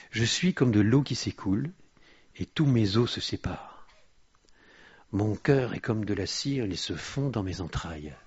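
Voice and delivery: measured psalm reading, launched firmly and easing down; preacher reciting a lament aloud; declamatory scripture reading. Acted. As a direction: read the verse out to a congregation.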